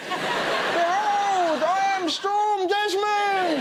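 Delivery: booming slow comic-book villain; superhero villain voice. Pretend. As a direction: announce yourself like an X-Men baddie. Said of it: "He sounds like a really shit member of the X-Men".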